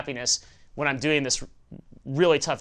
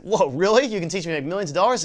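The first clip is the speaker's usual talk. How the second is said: mock astonished fisherman, higher and quicker; retold amazement; 4 semitones higher, 4 dB louder, faster than usual. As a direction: imitate a wowed fisherman, rushing the question. Fisherman reacts to millionaire's offer.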